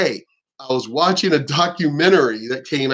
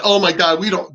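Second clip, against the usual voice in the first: slightly raised, imitated complaint; mock complaining; 2 semitones higher than usual. Mocking rioters who complain later, complaining. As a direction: act out a put-upon grumble. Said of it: "you could complain later".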